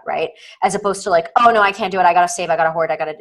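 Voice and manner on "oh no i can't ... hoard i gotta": louder, anxious "I gotta hoard" in a rush; fearful scarcity voice. Retold or imitated. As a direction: mimic the panicked hoarding mindset. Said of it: "there's two different energies".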